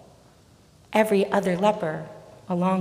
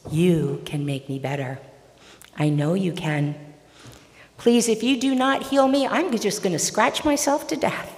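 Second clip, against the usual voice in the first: begging. Acted. Leper begs Jesus to heal him, begging. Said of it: "begging Jesus".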